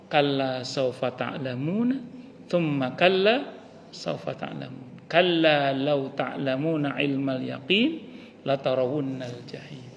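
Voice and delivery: slow, chanted Arabic verses; Quran recitation. Acted.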